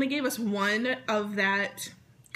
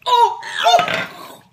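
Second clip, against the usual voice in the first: loud disgusted cry; 13 semitones higher, 10 dB louder than usual. Real, not acted. Tastes rotten egg bean.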